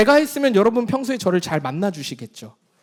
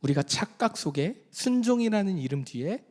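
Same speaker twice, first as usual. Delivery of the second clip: hushed exhortation; 5 semitones lower, 7 dB quieter than usual. Real, not acted. Solemn exhortation.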